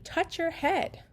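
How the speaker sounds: clear instruction. Retold or imitated. Therapist giving child an instruction.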